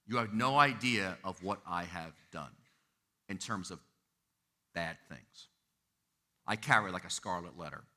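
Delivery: low, soft, halting admission; acted shameful confession. Member confessing a bad past to the pastor, subdued imitation. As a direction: confess it quietly, pausing before the hard words.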